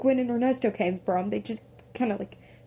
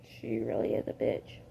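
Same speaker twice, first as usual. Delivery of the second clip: much lower, dry agreement; low deadpan; 12 semitones lower, 4 dB quieter than usual. Retold or imitated. Robin agreeing about his girlfriend, low and deadpan. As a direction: drop the voice and deadpan it.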